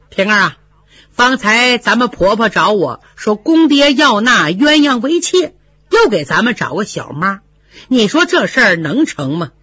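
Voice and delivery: lightly voiced, confiding Fengjie; sharp young mistress. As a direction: talk it over with your maid, knowingly.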